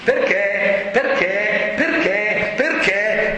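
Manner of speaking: lightly voiced child pestering with questions; imitating a child in the why phase; child's repeated why. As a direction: keep asking, evenly and insistently. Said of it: "vostri figli nella fase dei perché".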